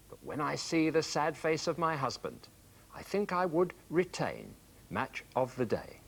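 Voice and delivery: lilting, rhythmic reading of a comic poem; mock-lament in rhyming couplets; verse recital. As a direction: recite light verse, pausing at the line ends. Reads a viewer's verse letter.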